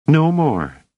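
firm reply. Acted. Dors firmly repeats her answer.

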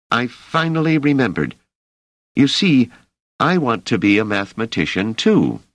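put-on a young man in awe of a mathematician; eager young worker. Emeril voiced by narrator.

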